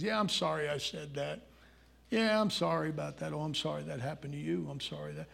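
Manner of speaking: soft, trailing mimicked apologies; mock apologizing. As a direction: mumble through routine apologies, fading away. Mimics people's habitual apologies.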